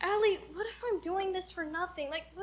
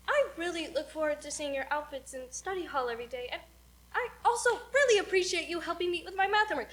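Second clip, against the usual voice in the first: earnest confession; faster than usual. Acted. Lillian rehearsing confession on friend, gently earnest. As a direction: say the compliments simply and sincerely.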